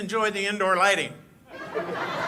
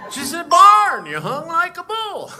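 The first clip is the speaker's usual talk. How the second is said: much higher, louder Thelma Lou falsetto, slower; high squeaky quote; 13 semitones higher, 10 dB louder, slower than usual. Acted. Deputy mimics his girlfriend in a high, loud squeal. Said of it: "Barney Fife".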